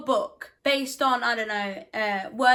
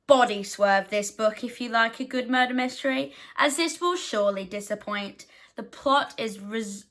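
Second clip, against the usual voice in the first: bad American accent. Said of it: "I kinda went into a really bad American accent there".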